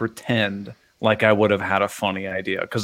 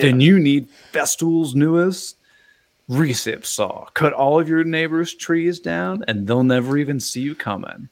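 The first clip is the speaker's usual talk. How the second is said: higher hyped TV pitchman; infomercial announcer; 5 semitones higher than usual. Pretend. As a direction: sell it like a late-night ad. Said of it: "like an infomercial".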